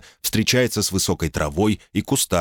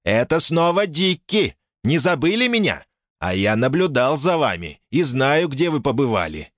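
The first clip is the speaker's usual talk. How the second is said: mocking American accent; 8 semitones higher than usual. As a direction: sneer it in a put-on American accent. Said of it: "насмешливо произнёс самоуверенный голос с американским акцентом".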